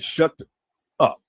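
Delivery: "Shut", a pause, then "up"; held-back curse. Shown as a demonstration. Man showing listeners he didn't curse, pausing before "up". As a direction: split "Shut" from "up" with a gap. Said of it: "See, I didn't curse this time".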